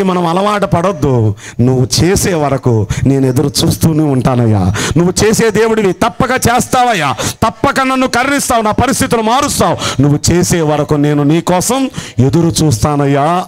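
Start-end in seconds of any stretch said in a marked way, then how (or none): 1.6-13.5 prayerful plea. Acted. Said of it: "అని ఎదురు చూచే వాళ్ళు".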